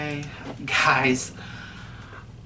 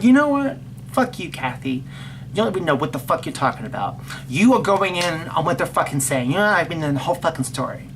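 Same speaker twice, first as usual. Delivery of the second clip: angry telling-off; 3 semitones higher than usual. Retold or imitated. Retells telling off brother's wife.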